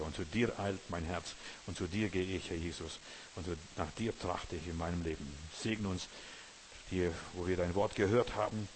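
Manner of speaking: prayer. Real, not acted. Closing prayer.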